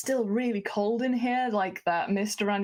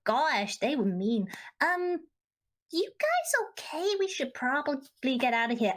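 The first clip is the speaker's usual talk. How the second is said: attempted Cockney accent; 5 semitones higher than usual. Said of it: "Am I American or am I a Cockney?".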